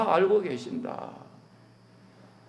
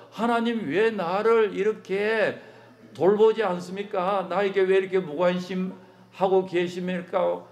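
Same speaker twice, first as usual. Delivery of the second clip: higher, pleading complaint to God; anguished prayer; 5 semitones higher than usual. Retold or imitated. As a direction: cry out as if abandoned. Believer crying to God. (높은 목소리로 하나님께 원망하듯 호소)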